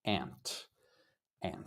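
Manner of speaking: aunt with a drawn-out ah; soft repeated ahnt for aunt; aunt said ahnt, long ah. Shown as a demonstration. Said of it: "So it's like a long ah".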